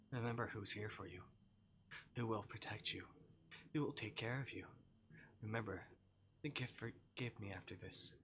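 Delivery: reading the game's lines aloud, acting them lightly; visual novel read-aloud. Streamer reads a yandere novel to viewers, lightly acted. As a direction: read the story text and voice the stalker lightly.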